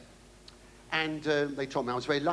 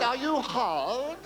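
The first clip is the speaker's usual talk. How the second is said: slow posh query; 8 semitones higher, much slower than usual. Retold or imitated. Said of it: "Very posh, very posh".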